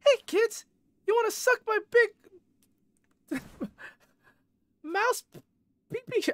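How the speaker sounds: very high squeaky falsetto mouse voice; high-pitched cartoon mouse greeting the kids; Mickey Mouse. Shown as a demonstration. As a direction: squeak it out far above your own pitch, cracking up midway. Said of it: "My best Mickey Mouse impression".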